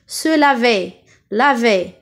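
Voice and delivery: "laver" ending in closed é. Shown as a demonstration. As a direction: model the final é of "laver". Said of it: "le son E". (« laver » avec é fermé final)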